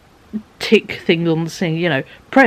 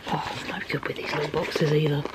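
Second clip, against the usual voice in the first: whispering; 3 semitones lower, 11 dB quieter than usual. Real, not acted. Muttering while fiddling with parcel.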